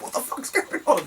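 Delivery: high, giggling incredulity; re-enacted amused bewilderment; laughing disbelief. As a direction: ask it through laughter. Retelling himself laughing at the scene.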